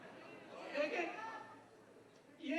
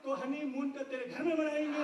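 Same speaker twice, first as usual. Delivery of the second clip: punchline shout; 4 dB louder than usual. Acted. Punchline of a poem to Musharraf.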